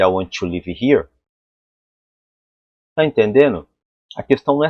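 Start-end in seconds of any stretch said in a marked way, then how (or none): 0.0-1.1 Brazilian-accented "live" as "leevi"; Portuguese-flavoured English, "want to" as "wan-tchi". Shown as a demonstration. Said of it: "aportuguesado, né, um sotaque forte".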